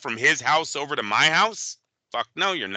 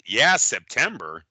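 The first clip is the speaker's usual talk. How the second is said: slow, lightly mocked Tank mumble; Tank's odd answer; 6 semitones lower, slower than usual. Host imitating Tank answering about Floyd, slow. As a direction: draw out yeah September like Tank. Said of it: "Tank sounds like he says".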